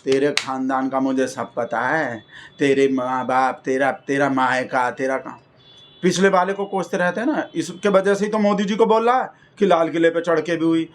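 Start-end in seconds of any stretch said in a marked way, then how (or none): 0.1-5.4 lower, slow, taunting mother-in-law; a hint of the cranky film mother-in-law scolding; nagging mother-in-law. Mother-in-law taunting her daughter-in-law, lower and slow. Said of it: "Lalita Pawar जो बहू को बहुत ऐसा ताना मारते".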